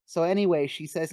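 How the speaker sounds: lightly acted brushing past the objection; hurried-on, mildly awkward deflection; powering through. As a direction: push on as if nobody interrupted. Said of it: "like, power through and be like".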